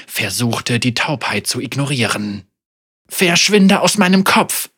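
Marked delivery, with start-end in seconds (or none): 3.1-4.7 high, loud angry shout; furious yell. Acted. Senna yells at Thrash to leave her head, high and loud.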